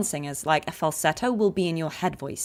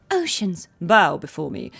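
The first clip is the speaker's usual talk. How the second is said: one-voice two-register battle line; 5 dB louder than usual. Shown as a demonstration. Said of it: "in one voice".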